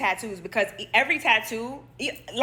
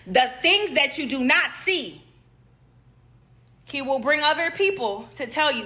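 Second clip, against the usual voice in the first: preaching; 3 semitones higher than usual. Real, not acted. Preaches the moral to viewers.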